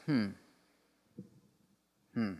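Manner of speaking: short, frowning "hmm", acted; an inspector's hum while marking down a fault; mock-judging closed-mouth hum; disapproving hmm. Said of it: "he kind of frowns".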